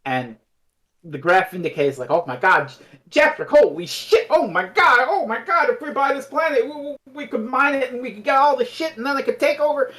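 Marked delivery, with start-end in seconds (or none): 2.1-9.9 gushing, high-pitched excitement; excited babbling. Retold or imitated. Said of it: "babbling excitedly".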